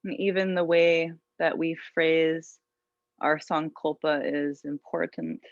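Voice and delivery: calm, unhurried yoga teacher voice; guided meditation. Real, not acted. Yoga teacher settling students into an intention, guided meditation. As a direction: guide them gently inward, leaving long pauses.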